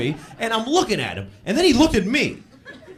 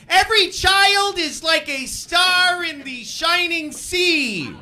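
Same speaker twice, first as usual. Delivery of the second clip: very high, slow, syrupy mock voice; mock sentimental people with long high vowels; gushing child-lover; 11 semitones higher, slower than usual. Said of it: "There's people that are like".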